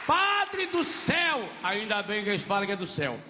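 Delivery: a churchgoer wailing his woes; whining parishioner. Retold or imitated. A parishioner lamenting to the priest, high and whiny.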